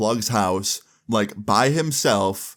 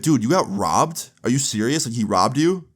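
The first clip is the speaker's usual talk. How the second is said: mildly incredulous questioning; retold disbelief; 2 semitones higher than usual. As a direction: imitate a friend taken aback, drawing out the first question. Friend learns of the robbery.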